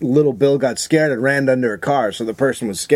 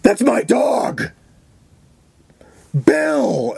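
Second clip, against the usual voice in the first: high, drawn-out wail of recognition; acted distraught cry; 9 semitones higher, much slower than usual. Crickets spotting what she thinks is her dog, mock anguished shout. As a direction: cry out for a lost dog, hammed-up. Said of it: "Crickets looks down at the dog and goes".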